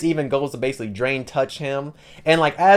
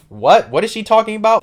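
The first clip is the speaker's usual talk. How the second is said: higher-pitched, baffled question; confused, voice jumping up; 8 semitones higher, 5 dB louder than usual. Retold or imitated. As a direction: act out mild bewilderment. Acted baffled reaction of Duke.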